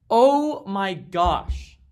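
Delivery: very slow, high, loud oh my gosh; stretched disbelief. Real, not acted. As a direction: moan it out long. Repeated disbelief.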